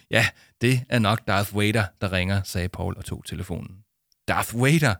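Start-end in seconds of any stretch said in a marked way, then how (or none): 4.3-4.9 a touch of open-mouthed disbelief; a boy's astonished question at a strange name; gaping surprise. Acted. Boy hears Darth Vader is calling, mildly astonished. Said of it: "Spurgte Arthur måbende".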